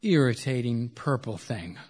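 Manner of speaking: measured poem recitation with falling line endings; spaced-out literary reading. Acted. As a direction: recite it line by line, letting each phrase settle. Reads poem lines aloud.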